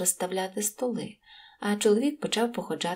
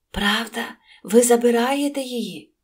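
louder, higher excited question; eager disbelief; 4 semitones higher, 8 dB louder than usual. A narrator's reading. Innkeeper's wife checks he will take her, eagerly amazed. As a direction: ask in loud, delighted amazement. Wife can hardly believe the offer.

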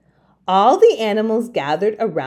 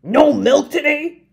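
high shocked cry; disbelieving high cry; cried out; 7 semitones higher, 3 dB louder than usual. Acted. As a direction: farmer can't believe it. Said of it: "cried Farmer Brown".

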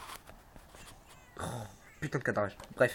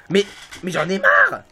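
fed up; 3 semitones higher, 6 dB louder than usual. Real, not acted. Fed up after dying.

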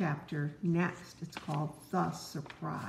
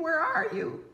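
much higher, louder call for Frog; calling cry; 11 semitones higher, 4 dB louder than usual. Acted. Toad, buried in ice cream, calls loudly for Frog. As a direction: call out from under the mess. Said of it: "cried the thing".

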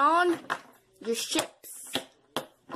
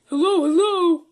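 loud hello; 7 semitones higher, 13 dB louder than usual. Real, not acted. Answering phone in panic.

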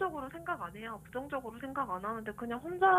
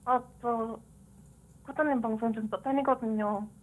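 man doing a woman's voice. Pretend. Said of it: "남자가 여자 목소리 흉내내는 거네".

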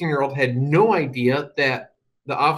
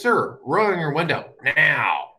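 slow, firm police command; a touch of a stern officer; 3 semitones higher, slower than usual. Retold or imitated. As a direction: order him like a cop. Officer demands window down.

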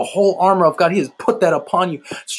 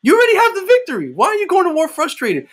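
fired-up preaching; 12 semitones higher than usual. Real, not acted. Preacher rebuking frustration.

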